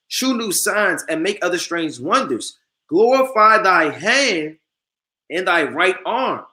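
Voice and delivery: slow, solemn reading of scripture; preacher reading Sirach aloud, slow and solemn. Acted. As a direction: intone the verse slowly and weightily.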